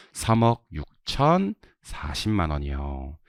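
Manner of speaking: very slow, drawn-out number reading; slow drill reading. Shown as a demonstration. Teacher models the second practice amount, slow drill reading. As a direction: read it out chunk by chunk for a class.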